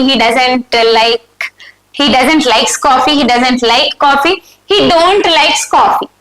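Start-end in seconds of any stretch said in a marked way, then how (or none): 1.9-4.4 slow option read. Shown as a demonstration. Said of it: "What is the right statement here?". 4.7-6.1 slow option read. Shown as a demonstration. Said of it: "What is the right statement here?".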